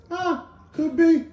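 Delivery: high, slow, drawn-out "Ah, could be"; mock-casual "could be" of the special needs guy; easygoing shrug. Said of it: "then looks at him and says".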